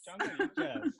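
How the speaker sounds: high, loud Hispanic-accented exclamation with laughter; Miami Hispanic accent. Shown as a demonstration. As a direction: whoop it in a mock Miami chonga accent. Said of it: "I can too".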